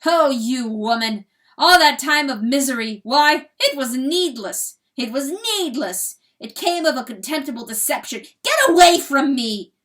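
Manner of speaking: roaring fury. A narrator's reading. Rooster roaring at hen to leave, furious. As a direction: roar it out, shaking with fury. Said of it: "roars the cock".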